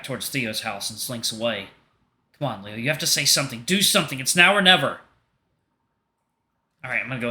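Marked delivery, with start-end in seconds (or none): 2.4-5.0 rising, louder urging; urgent self-pep talk. Acted. Leo's inner voice urging him to speak, rising urgent voice. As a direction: push yourself to act.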